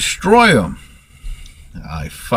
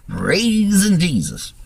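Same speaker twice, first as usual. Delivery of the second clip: mock praise; 9 semitones higher, slower than usual. Mocking believers who want to convert.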